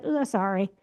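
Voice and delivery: short, flat, offhand sorry; curt offhand sorry. Retold or imitated. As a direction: toss off a quick sorry. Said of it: "I was like".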